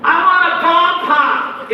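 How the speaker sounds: put-on high, slow kid whine; whiny daughter. Preacher imitating daughter, high slow whine. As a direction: ask for a popsicle like a small child.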